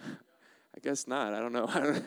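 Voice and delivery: slow, unbothered shrug of a reply; mock nonchalance. Preacher answering the panicked library crowd, mock nonchalance. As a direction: drag it out, totally unconcerned.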